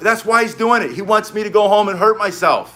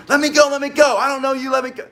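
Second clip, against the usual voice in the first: mock kid protest; 8 semitones higher than usual. Kid struggling, retold.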